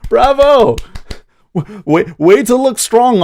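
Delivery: high, laughing mock applause; sarcastic laughing praise. Real, not acted. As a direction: cackle out a sarcastic bravo. Sarcastic praise of debate loser.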